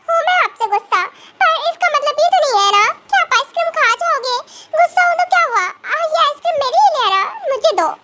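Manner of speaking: put-on a kid grabbing back her treat; demanding young girl. Indignant girl demanding a rapper hand over the ice cream.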